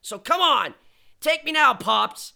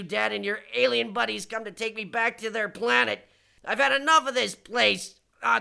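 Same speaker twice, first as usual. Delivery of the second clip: usual speaking voice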